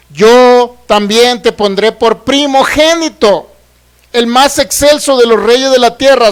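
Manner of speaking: slow, emphatic declaimed Bible verse; scripture reading. Real, not acted. Preacher reading the psalm to a congregation, slow proclamation. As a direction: stretch out key words as you proclaim the psalm.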